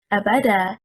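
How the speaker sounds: Abada said a-BA-da, second syllable stressed. Shown as a demonstration. Teacher showing second-syllable stress on Abada. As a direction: put the weight on BA in Abada. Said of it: "Stressing on the second harakah".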